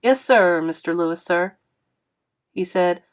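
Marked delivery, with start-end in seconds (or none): 0.0-1.6 talking round a mouthful of sandwich; words pushed past food in the cheek; mouth full. Acted. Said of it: "shoved the part of the sandwich that I was chewing into the side of my mouth".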